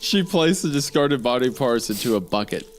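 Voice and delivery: even, measured read-aloud; storyteller's steady delivery, dropping at the end; story narration. A narrator's reading. Reads the story.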